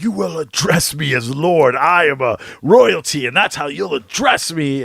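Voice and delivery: imitating a count's accent, a touch haughty; Orlok accent. Host retelling Count Orlok's demand, in a light mock lordly accent. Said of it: "He has this amazing accent".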